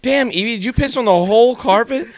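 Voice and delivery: half-laughing outburst at Evie over the whole carpet; retold dismayed yell. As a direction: yell at the dog as you relive it. Retelling dog peeing on carpet.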